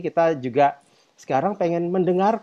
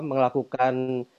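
bad connection; 4 dB quieter than usual. Real, not acted. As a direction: voice cutting in and out, fading. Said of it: "suaranya hilang-hilang". (suara putus-putus koneksi buruk)

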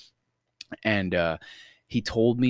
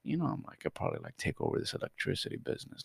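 mock-cool, very quiet bragging; retold bragging; 2 semitones lower, 13 dB quieter, faster than usual. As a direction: brag casually under your voice. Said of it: "I started bragging to him".

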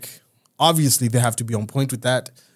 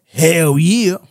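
excited; 2 semitones higher, 7 dB louder than usual. Acted. Cheering for a Zambian film.

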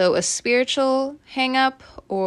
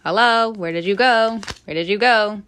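calling lost thought; 3 semitones higher, 3 dB louder than usual. Real, not acted. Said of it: "and my train of thought".

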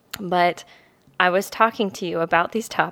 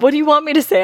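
louder, higher imitation of a defensive husband; mock exasperated; 7 semitones higher, 8 dB louder, much faster than usual. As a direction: throw it back at her, exasperated. Quoting husband in an argument.

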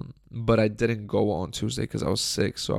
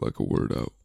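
lower, strained raspy near-whisper; hoarse rasp demo; 11 semitones lower than usual. Shown as a demonstration. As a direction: push the words through a wrecked throat. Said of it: "without talking like this".

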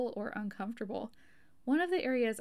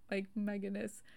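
normal talking voice

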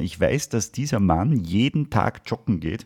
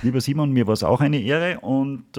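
ordinary talk

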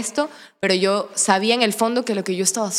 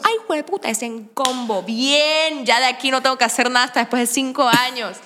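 thrilled; 3 semitones higher than usual. Retold or imitated. Reacts to seeing both men.

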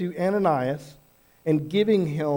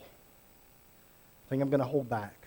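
hesitant backing off; 4 semitones lower, 7 dB quieter, slower than usual. Pretend. Voices hesitant self, slow low.

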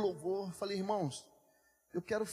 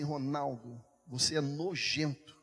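voice of the Holy Spirit; 5 semitones lower, slower than usual. Retold or imitated. God's voice rebuking the pastor.

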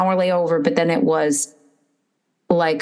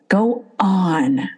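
whispered go on. Retold or imitated. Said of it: "fans are like".

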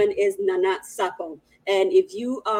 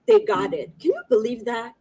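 amazed; 10 semitones higher than usual. Real, not acted. Amazed at fast delivery.

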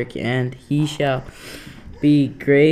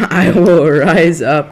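misreading through a laugh; 3 semitones higher, 8 dB louder than usual. Real, not acted.

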